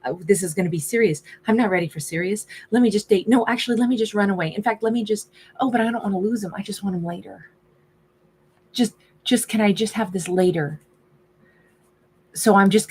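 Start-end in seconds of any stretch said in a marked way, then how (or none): 0.0-10.8 mock freak-out. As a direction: play the lover's rushed, flustered thoughts. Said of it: "Then it was, like, freak out mode".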